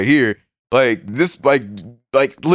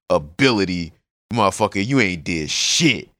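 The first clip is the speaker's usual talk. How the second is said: gruff father voice; 3 semitones lower than usual. Retold or imitated. Father voiced in a retold scene.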